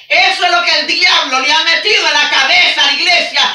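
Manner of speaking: urgent pulpit delivery; forceful preaching. Real, not acted. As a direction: preach it out to the whole church.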